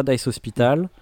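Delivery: French speaker saying Dice Hospital with an English accent. Real, not acted. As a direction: say the name like a native English speaker. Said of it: "tu as un accent anglais incroyable".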